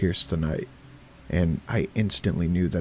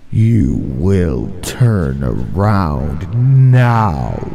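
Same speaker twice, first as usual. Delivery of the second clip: very slow, much louder, booming from everywhere; booming otherworldly voice; 11 dB louder, much slower than usual. A narrator's reading. Creatures warn the teenagers to turn back, booming voice. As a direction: let it boom like the world itself is speaking. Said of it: "rather boomed throughout the air".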